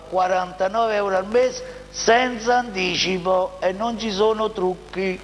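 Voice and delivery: punchy salesman pitch, rising at the end; infomercial. Acted. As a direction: push the deal like a TV ad. Dealer pitches car prices. (voce da televendita entusiasta)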